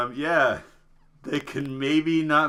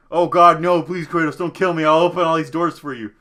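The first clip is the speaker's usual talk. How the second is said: pleading scholar; 5 dB louder than usual. Retold or imitated. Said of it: "the scholar's like".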